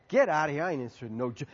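mock surly refusal, trailing down; dismissive refusal. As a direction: wave the offer away. Acts out panhandler refusing offer.

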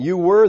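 "you were" with a loud push on "were"; emphatic were. Shown as a demonstration. Preacher pointing out the emphatic verb, loud "were". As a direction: hit "were" hard and loud. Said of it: "there is again emphatic".

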